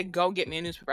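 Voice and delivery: plain curt command, imitated; mock order in a lowish, everyday voice; retold order. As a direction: give it as a bare order, without pleading. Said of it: "you ordered me to go get the newspaper".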